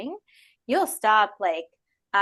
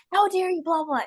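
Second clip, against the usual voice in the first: high, indignant how dare you; mock outrage; 9 semitones higher, 4 dB louder than usual. Scene: replying to a rude social media post, mock outrage. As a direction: play it huffy and offended.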